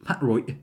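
"patroit" as pa'-roi', two throat catches; both Ts glottalized. Shown as a demonstration. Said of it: "Glottal both of them?".

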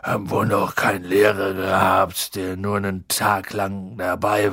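a hint of sad drunk giant; gruff Hagrid voice. A narrator's reading.

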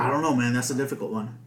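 talking while chewing; mouth full. Real, not acted. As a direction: speak around a mouthful. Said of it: "I'm still eating the Mike and Eggs".

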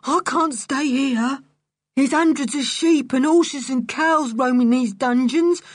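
scared whine. A narrator's reading. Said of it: "I'm scared of them".

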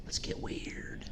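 spooky breathy whisper, slowed down. Pretend. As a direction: hush it like a ghost story. Echoing a line as a whisper.

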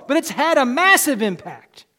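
massive punched out loud; a preacher driving the point home; emphatic. Acted. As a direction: declare it boldly. Loud line, then quiet echo.

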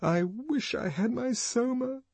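high, plaintive longing; Lenina's plaintive wish. A narrator's reading. Lenina craving Soma, high plaintive voice. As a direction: whimper for your comfort. Lenina craves her drug.

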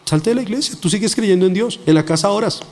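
voice of the enemy. Retold or imitated. Preacher imitates spirits luring believers away, coaxing tempter. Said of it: "esa es la voz del enemigo".

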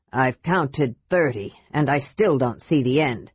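grumbling dwarf complaining about stairs; gruff dwarf Flint. Acted. Flint voiced, lower.

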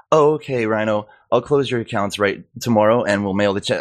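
mocking imitation, opening high then settling; imitated bank employee brushing him off; bank lady.

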